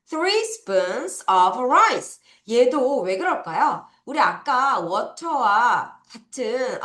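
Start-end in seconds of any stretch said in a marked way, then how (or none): 0.1-2.2 "three spoons of rice" drawn out; slow teacher repeat. Shown as a demonstration. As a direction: repeat slowly. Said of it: "다시".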